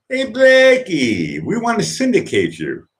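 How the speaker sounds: high, drawn-out mock calling voice; hammed-up high-pitched pitch to a star; eager caller. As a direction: call out to Blackie like a pretend talent scout. Mimics imagined callers offering syndication.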